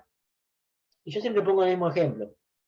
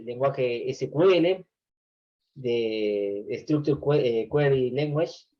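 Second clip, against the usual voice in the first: slow spelled out; 2 semitones lower, much slower than usual. Shown as a demonstration. Names the SQL language for students.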